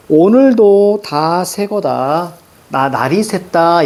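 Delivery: put-on slow, measured reading of old verse; poem recitation. Teacher reading a sijo aloud to the class, slow and measured. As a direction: recite the sijo line slowly and evenly.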